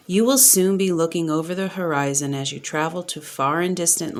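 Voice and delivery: steady, uplifting reading voice; oracle message reading. Acted. Reader reading the oracle card's message aloud, uplifting. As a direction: read the card's message like a blessing.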